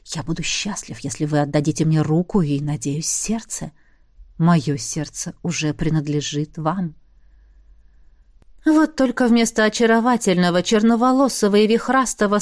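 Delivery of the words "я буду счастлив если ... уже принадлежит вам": low, hypnotic and persuasive. Acted. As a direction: cast a spell with the voice. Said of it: "постарался придать гипнотическую силу".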